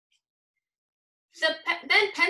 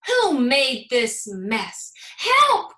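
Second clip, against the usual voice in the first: crying for help; 2 semitones higher, 8 dB louder, much slower than usual. A narrator's reading. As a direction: shout for help in a panic. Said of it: "cried Little Red".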